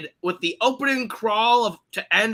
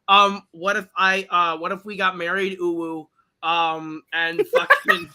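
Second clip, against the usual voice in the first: mock simp. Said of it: "absolute motherfucking simp, uh, is just like".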